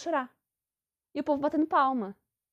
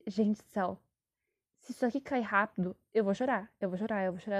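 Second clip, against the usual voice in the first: mock scared; 2 semitones lower than usual. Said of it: "Eu fiquei".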